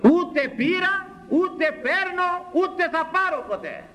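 very high, ringing declaration; emphatic denial. Real, not acted. Preacher denying he ever took money, emphatic high cry.

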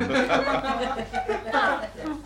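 real high-pitched giggle; high laugh. Real, not acted. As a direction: burst out laughing. Laughs at own joke.

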